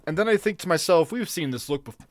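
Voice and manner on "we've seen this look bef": words cut off by a cough; choking on beer. Real, not acted. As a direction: sputter mid-sentence on beer. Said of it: "excuse me, choking on beer".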